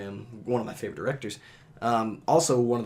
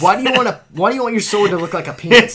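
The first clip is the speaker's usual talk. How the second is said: much higher and louder, disbelieving; incredulous outburst; 8 semitones higher, 10 dB louder, faster than usual. Real, not acted. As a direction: cry out in amused disbelief. Outburst at a penis-shaped sword.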